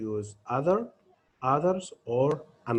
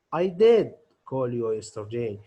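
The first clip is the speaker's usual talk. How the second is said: did pushed out a bit louder; emphatic did; 4 dB louder than usual. Shown as a demonstration. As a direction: insist on did to contradict. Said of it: "I emphasize that I did this action".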